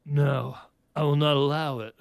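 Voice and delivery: low, serious refusal. Acted. Gyro looking into her eyes, serious refusal. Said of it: "said in a serious voice".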